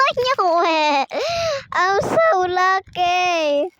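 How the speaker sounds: loud, high thrilled shouting; excited. Real, not acted. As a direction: cheer it out, overjoyed. Got the wanted figure.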